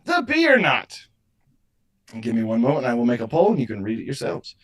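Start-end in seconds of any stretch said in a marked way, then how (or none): 0.0-1.0 high booming villain proclamation; megalomaniac rant. Acted. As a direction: unveil it like a mad inventor. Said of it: "Behold my creation!".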